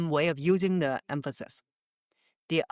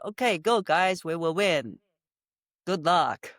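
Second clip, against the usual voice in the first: careless, undetermined. Shown as a demonstration. Coach cheering the team without conviction, casual. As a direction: say it like you don't care. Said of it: "They don't feel it".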